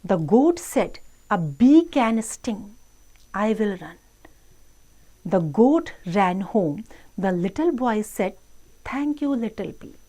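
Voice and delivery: slow, measured English read-aloud; children's story reading. Acted. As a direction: read slowly to children, word by word. Reads English story slowly to children. (बच्चों को धीरे-धीरे कहानी पढ़कर सुनाना)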